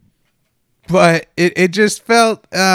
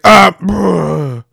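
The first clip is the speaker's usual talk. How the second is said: flustered dad; 3 dB louder, much slower than usual. Retold or imitated. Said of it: "And the dad's like".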